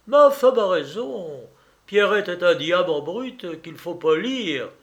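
lightly voiced scheming lawyer; persuading lawyer. Lawyer talking his host into funding a newspaper, lightly acted persuasion.

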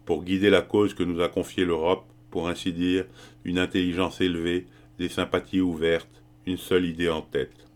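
measured, mildly declamatory list; a touch of oratory; declaiming. A narrator's reading. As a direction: recite it like a modest speech. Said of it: "se mit-il soudain à déclamer".

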